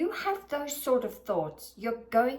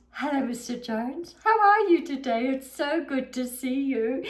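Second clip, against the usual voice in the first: fake cheerful greeting; 3 semitones higher, 4 dB louder than usual. Flight attendant greets a complaining passenger, fake cheerful. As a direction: greet him with a forced smile. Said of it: "go up to Mister Jones".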